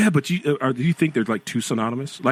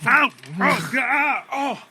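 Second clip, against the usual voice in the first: high startled cry; 12 semitones higher, much slower than usual. Real, not acted. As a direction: yelp as if struck. Reacting to game hit.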